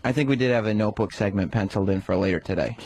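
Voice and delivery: understated deadpan sarcasm; sarcastic. Real, not acted. Co-host needling producer about a notebook segment, sarcastic. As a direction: say it as if sincere, sarcastically. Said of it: "I was being sarcastic".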